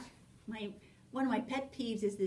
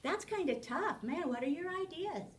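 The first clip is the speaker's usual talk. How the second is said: encouraging question; 4 semitones higher, 4 dB quieter than usual. Shown as a demonstration. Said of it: "And so you would say".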